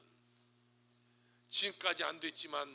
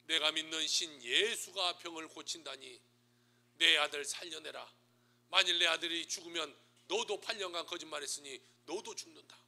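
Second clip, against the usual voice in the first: threatening shout; 10 dB louder than usual. Acted. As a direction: bellow the chief's ultimatum word by word. Chief's threatening death note read.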